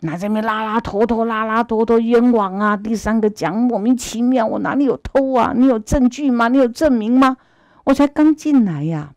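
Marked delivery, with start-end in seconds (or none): 4.5-9.1 higher-pitched heated challenge; indignant denial. Acted. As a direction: demand proof, wronged and upset. Accused man argues innocence.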